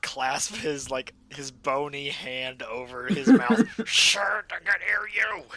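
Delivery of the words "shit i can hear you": high, loud, drawn-out in-character yell; alarmed shout. Acted. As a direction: shout it in panic to silence a companion. Character hushes companion in alarm.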